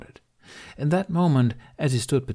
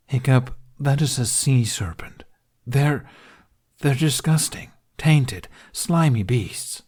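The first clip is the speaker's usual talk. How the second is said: disgusted; 5 semitones higher, 5 dB louder, slower than usual. A narrator's reading. Dragon disgusted by serpents.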